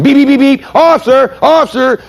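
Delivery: high, urgent woman calling out; high-pitched honking lady. Retold or imitated. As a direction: squeak it out like an impatient lady driver.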